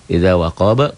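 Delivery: "waqaba" stopped with a bouncing echo on the b; qalqalah kubro. Shown as a demonstration. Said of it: "qalqalah kubro, kabir jika berhenti". ("waqaba" dipantulkan di akhir)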